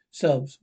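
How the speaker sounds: sob. Acted. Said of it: "Stop crying".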